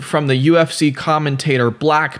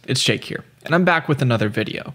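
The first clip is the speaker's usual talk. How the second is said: cheeks stuffed full; 2 semitones lower, 3 dB quieter than usual. Real, not acted. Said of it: "it looks like I'm doing a Chubby Bunny challenge".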